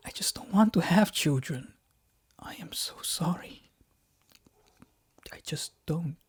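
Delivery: soft breathy whisper; whispered apology. Acted. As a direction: whisper the apology, barely there. Apologizing to crying wife.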